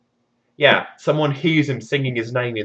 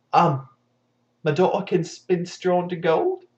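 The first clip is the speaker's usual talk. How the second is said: sheepish repeat; 6 semitones higher than usual. Acted. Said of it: "repeated as a question".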